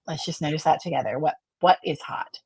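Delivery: softly inviting, like a calm therapist; gentle therapist voice. Shown as a demonstration. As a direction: coax the client to just notice. Therapist voice gently guiding a client.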